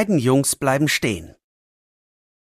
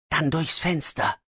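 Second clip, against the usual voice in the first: softer, murmured to himself; quietly to himself; 2 semitones higher, 5 dB quieter than usual. Acted. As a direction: say it just for yourself. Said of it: "sagt er leise zu sich". (leise zu sich selbst)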